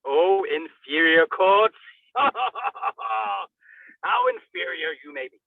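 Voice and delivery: slow, laughing mockery of the courts; slow teasing laugh with a cry in it; mocking laugh. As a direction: draw it out, laughing at them. Mocking aside about inferior courts.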